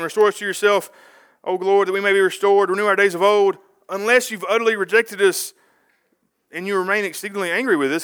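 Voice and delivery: fervent plea. Retold or imitated. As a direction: cry this out to God with urgency. Jeremiah's lament read with fervour.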